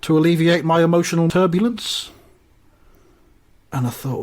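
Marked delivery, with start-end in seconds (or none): 0.0-2.1 a slightly raised, formal politician's voice; a mildly theatrical romantic plea; lightly voiced Corbyn. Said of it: "So he says".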